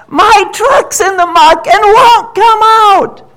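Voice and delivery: high, loud, slow call for help; shouting duck. Acted. Duck shouts to the goat, high and loud. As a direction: shout it across the water. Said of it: "hears the shout".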